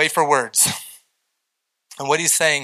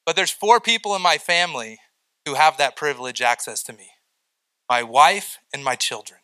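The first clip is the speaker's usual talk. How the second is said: usual speaking voice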